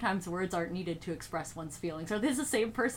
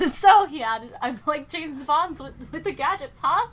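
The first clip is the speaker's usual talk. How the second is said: laughing while reading; 6 semitones higher, 8 dB louder than usual. Real, not acted. Reader laughing through the quote.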